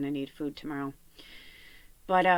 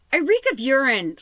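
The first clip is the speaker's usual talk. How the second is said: loud, higher mock-despairing declaration; exasperated outburst; 7 semitones higher, 10 dB louder than usual. To Alder during a fight, loud exasperated complaint. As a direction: throw it at him in disbelief.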